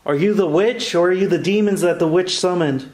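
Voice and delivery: loud, firm challenge to the spirits; defiant challenge. Real, not acted. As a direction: confront the witch head on. Challenging the witch aloud.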